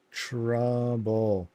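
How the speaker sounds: "Trouble" stretched out slowly, syllable by syllable; drawn-out mock reading. Shown as a demonstration. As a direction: draw "Trouble" out long, as if reading it carefully. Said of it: "I read it perfectly".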